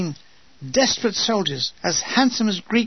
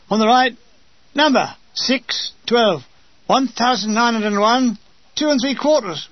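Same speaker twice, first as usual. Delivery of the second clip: shouted mock drill count, higher; mock numbering off; 4 semitones higher, 3 dB louder than usual. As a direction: bellow the nonsense numbers. Men mockingly numbering off.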